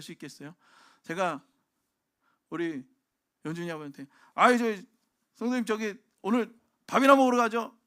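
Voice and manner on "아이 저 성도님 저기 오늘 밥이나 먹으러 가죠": pushy invitation. Retold or imitated. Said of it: "이렇게 얘기하면".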